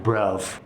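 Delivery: "bruv", V in place of TH, Cockney style; Cockney th-fronting. Shown as a demonstration. Teacher showing how Cockneys say "bruv", th-fronted. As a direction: say "bruv" ending on a V. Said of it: "swapping the T H for F or V".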